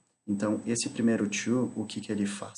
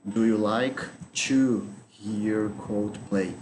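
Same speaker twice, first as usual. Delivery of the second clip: slow model sentence; slower than usual. Shown as a demonstration. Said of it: "Seria isto aqui a frase correta".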